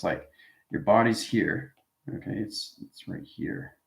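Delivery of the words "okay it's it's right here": whispered aside. Real, not acted. Teacher pointing out the body to the class, whispered. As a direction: drop to a whisper.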